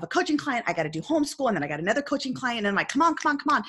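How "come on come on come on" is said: high, rushed mock impatience; frustrated raised voice. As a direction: act out hurrying the kids along. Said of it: "my voice elevates".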